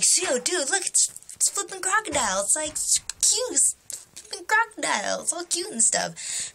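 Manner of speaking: high-pitched gushing to a friend; excited pointing-out. Retold or imitated. Telling friend about a cute crocodile, excited and high.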